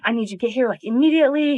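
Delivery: mock-frantic, pushing harder toward the end; acted-out panicked phone call, no real tears; retold frantic plea. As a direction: imitate someone urgently begging for a pickup. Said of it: "bawling her eyes out".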